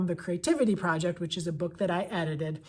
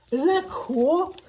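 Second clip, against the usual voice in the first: high, slow, delighted question; thrilled teacher showing the book; excited; 8 semitones higher, 4 dB louder, much slower than usual. Real, not acted. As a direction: marvel at it out loud.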